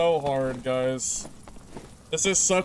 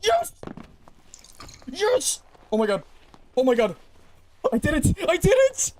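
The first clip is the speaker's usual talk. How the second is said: ecstatic shouting; 13 semitones higher than usual. Real, not acted. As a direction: scream with pure triumph. Clutch win, screaming with joy.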